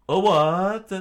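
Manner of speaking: high startled "what"; surprised yelp. Acted. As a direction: jump at the news. Surprised character outburst.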